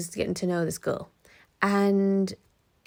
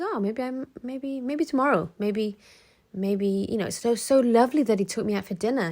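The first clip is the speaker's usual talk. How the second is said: put-on hopeful girlfriend; 3 semitones higher than usual. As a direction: sound brave but let down. Girlfriend hoping for the gift.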